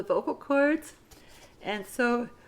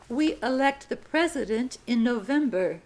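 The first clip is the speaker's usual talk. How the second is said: slow, clear dictation read. Shown as a demonstration. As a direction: read it out slowly for students to write. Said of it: "Sentence number fifty-two".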